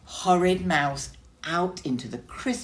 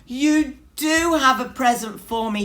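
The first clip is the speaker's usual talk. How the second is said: high, loud excited mouse voice; excited cry; 10 semitones higher, 8 dB louder than usual. A narrator's reading. Mouse cries out excitedly to Bear about the stockings. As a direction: squeal with delight. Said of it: "he cried".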